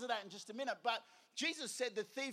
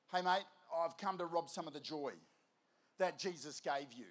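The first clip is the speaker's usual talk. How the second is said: lightly voiced devil, low and matey; casual devil; 5 semitones lower than usual. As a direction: lower the voice for an offhand devil at the door. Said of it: "And the devil's there going".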